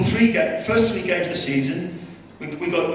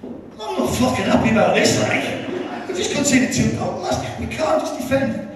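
retold angry rant; 6 semitones higher than usual. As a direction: replay the manager losing it in the dressing room. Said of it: "he looks at him and goes".

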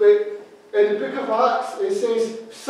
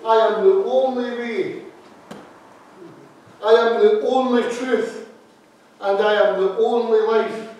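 each "only" pushed louder and held; stress on ONLY; 3 dB louder than usual. Retold or imitated. Preacher repeating Jesus's claim to the congregation, stress on ONLY. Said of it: "it's even more emphatic than that".

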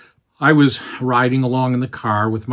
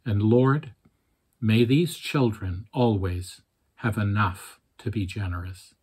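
gentle Scottish brogue praying; quiet Scottish grandmother's prayer; soft Scottish brogue. Retold or imitated. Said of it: "soft Scottish brogue".

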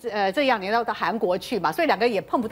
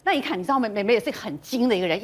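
usual speaking voice

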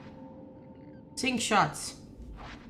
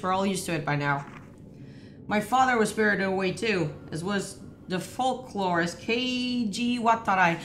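even, measured narration of a found notebook; reading aloud. Real, not acted. Player reading a game notebook to partner, measured reading. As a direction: read the journal entry steadily.

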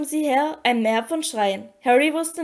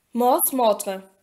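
understated incantation in an altered timbre; spell incantation. A narrator's reading. Unknown voice casts a spell in the forest, incanting. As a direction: intone it like a magic spell. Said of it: "das wie ein Zauberspruch klang".

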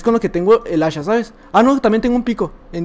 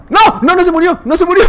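high, loud cry of disbelief; can't believe he survived; shocked disbelief; 8 semitones higher, 3 dB louder than usual. Real, not acted. Enemy survives the trap. (grito de incredulidad, agudo y fuerte)

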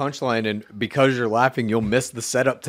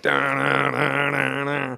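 monotone da-da-da, mimicking the endless drone; a lightly voiced mock monotone; mocking droning cadence; 2 semitones higher, much slower than usual. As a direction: imitate a robotic, droning rhythm. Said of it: "the fucking droning".

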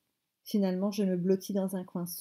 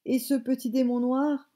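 higher-pitched, indignant accusation; indignant rage; 5 semitones higher, 4 dB louder than usual. A narrator's reading. Grandmother denouncing the boy to his mother, indignant. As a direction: accuse with a touch of trembling outrage. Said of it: "tremblait de rage et d'indignation".

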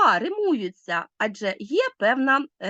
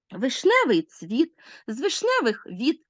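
вишневий цвіт, з вишневих віт measured, weight on every second syllable; iambic stress; 2 semitones higher than usual. Shown as a demonstration. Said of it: "ямб наголошується другий склад. Наприклад".

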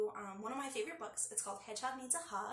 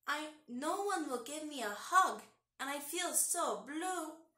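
sad voice; 3 semitones higher, 3 dB louder, slower than usual. Acted. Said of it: "soft sobs".

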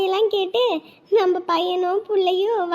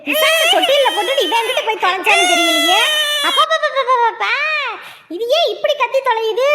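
exasperated shout; 4 semitones higher than usual. Acted. Annoyed relative shouting over a screaming baby.

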